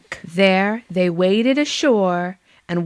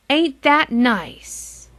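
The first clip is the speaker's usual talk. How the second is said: slow, hushed whisper; slow breathy street sweeper voice; 5 semitones higher, much slower than usual. Acted. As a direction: whisper it admiringly.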